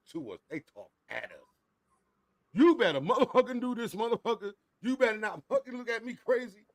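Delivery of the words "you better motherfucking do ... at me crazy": loud, high-pitched telling-off; scolding boomer parent. Acted. Boomer parent talking at a kid, loud scolding. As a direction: lay down the law, loud and high.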